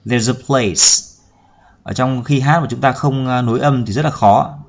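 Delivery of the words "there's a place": "there's a place" drilled with THERE'S and A joined; linked sounds. Shown as a demonstration. Teacher drilling the first words of the lyric, linked sounds. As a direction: slowly link "there's a" into place. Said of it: "chúng ta nối âm thành".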